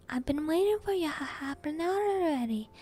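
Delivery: loud, gruff impatient giant. Acted. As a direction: grumble impatiently. Hagrid impatient.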